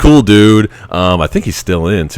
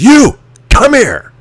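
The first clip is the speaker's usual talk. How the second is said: mock anger, higher and louder; 6 dB louder than usual. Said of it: "he's acting like he's all pissed off".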